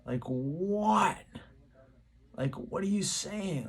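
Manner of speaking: high, rising-then-falling puzzled creature call; imitating a Sasquatch calling back a question. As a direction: call out like a confused beast asking what. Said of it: "sounded like the Sasquatch was like".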